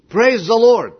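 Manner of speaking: loud, high cry of praise; shouted exclamation. Retold or imitated. Believer exclaims over an encyclopedia, shouted praise. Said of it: "he exclaimed".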